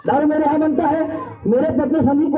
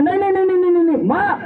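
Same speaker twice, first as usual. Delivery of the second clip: stubborn insisting. Retold or imitated. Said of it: "फिर बेटा जिद करता है".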